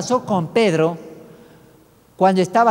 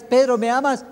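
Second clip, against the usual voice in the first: the same question asked higher, a touch more insistent; pressing third question; 5 semitones higher, 4 dB louder than usual. Retold or imitated. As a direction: press Peter gently a third time. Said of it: "le pregunta la tercera vez".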